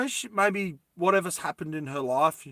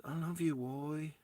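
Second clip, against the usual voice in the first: soft, lightly put-on Asian accent; hushed mock Asian-accented girlfriend; imitated Asian accent; 12 dB quieter than usual. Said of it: "Now she sounds Asian".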